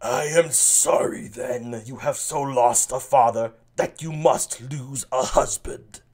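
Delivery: a light rasp in the voice. Acted. Burgundy making his offer to the king, lightly rasped. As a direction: rasp the words out a little. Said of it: "Let's go with kind of a rasp".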